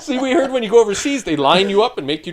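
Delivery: high, loud laughing speech; words bubbling with laughter. Real, not acted. Retelling the pill rumor to hosts, laughing loudly.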